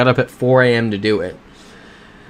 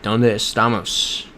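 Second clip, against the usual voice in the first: put-on lazy Spanish accent; slower than usual. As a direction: toss off a half-hearted Spanish accent. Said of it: "I put no effort into that accent".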